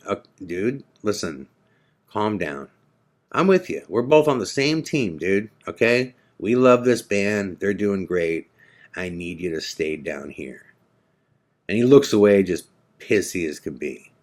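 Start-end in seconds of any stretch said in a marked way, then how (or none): 0.1-10.7 calming. Retold or imitated. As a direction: settle a drunk man gently. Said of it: "And I'm going".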